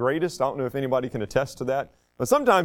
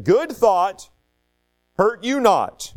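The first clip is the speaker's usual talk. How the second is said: measured lines with pauses between; poem recitation; 3 semitones higher, slower than usual. Acted. Pastor reciting a forgiveness poem for kids, measured recitation. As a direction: recite it slowly, line by line.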